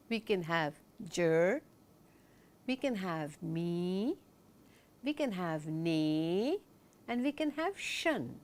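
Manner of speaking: slow, each syllable drawn out on its own. Shown as a demonstration. Teacher slowly splitting germination into syllables. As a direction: split the word slowly into its chunks. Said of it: "break it up into smaller chunks".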